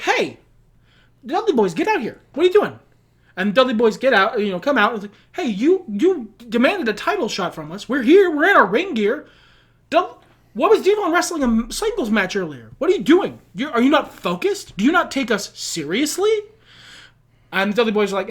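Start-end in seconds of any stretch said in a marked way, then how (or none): 0.0-2.8 higher-pitched acted indignation; mock upset. Upset tag team calling out the Dudley Boys, mock indignant. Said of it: "they're, they're upset". 5.3-16.3 mock upset. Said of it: "they're, they're upset".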